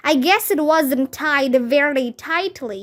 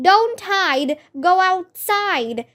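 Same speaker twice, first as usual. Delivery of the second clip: higher rhyming call; shouted; 5 semitones higher than usual. Acted. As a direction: shout the rule. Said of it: "shouted Neil".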